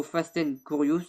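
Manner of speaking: a French vlogger trying English words; English accent. Real, not acted. French vlogger naming his video with an awkward English accent. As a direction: say Fast and Curious with a clumsy French-English accent. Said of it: "Désolé pour mon accent anglais".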